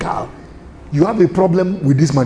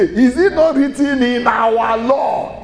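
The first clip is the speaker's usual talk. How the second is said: mock Jew's correction; 4 semitones higher, slower than usual. Shown as a demonstration. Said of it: "what's a Jew supposed to say?".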